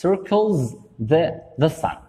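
circles the sun drawn out slowly; slow model sentence. Shown as a demonstration. Teacher reads the example sentence slowly. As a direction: stretch circles so the s ending is heard. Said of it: "كنقولوا".

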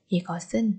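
이것은 with ㅅ carried into 은; linked sounds. Shown as a demonstration. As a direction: run 이것은 together as "i-geo-seun". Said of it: "nối âm". (đọc nối âm 이것은 thành "i-geo-seun")

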